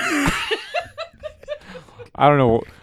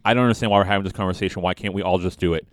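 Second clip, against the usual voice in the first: stern imitation; 5 semitones lower, faster than usual. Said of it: "very sternly you said".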